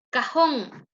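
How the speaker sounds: "cajón" with a drawn-out JÓN; final-syllable stress. Shown as a demonstration. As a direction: stretch the last syllable of "cajón". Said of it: "mayor fuerza de voz en el último lugar".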